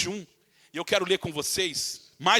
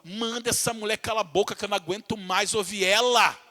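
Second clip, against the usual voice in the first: impatient disciples. Retold or imitated. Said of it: "A intercessão dos santos foi assim".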